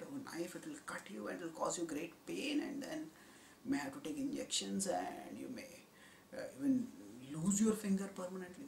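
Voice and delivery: soft, half-whispered caution; gently scare the child away from the knife; hushed warning to a child. Retold or imitated. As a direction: parent hushing a child about a sharp knife, softly. Adult warning a child about knife.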